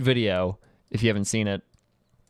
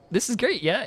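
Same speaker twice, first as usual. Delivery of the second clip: cheery; 8 semitones higher than usual. Retold or imitated. Cheerfully showing friends a sad show.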